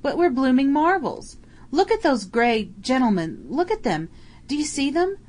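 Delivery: high, loud amazed cockney soldier; excited shouting. Acted. Soldier yelling to his mate in the trench, amazed and loud. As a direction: yell your astonishment at the enemy falling. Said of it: "he bellowed".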